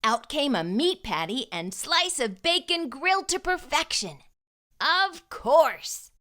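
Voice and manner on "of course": higher, lively aha; excited realization. A narrator's reading. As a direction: exclaim it like a happy discovery. Realization in a children's story.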